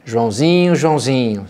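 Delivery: calling Joãozinho, a touch fed up; exasperated call. Shown as a demonstration. Parent calling a child who's misbehaving, mildly exasperated. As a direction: call the boy's name like he's up to something again. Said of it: "como é que a gente faz isso?".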